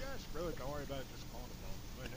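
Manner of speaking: mock cavalier. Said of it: "everybody's so cavalier".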